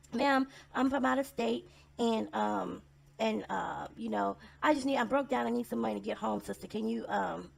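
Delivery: distressed stranger. Retold or imitated. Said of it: "all hot and tired and distressed".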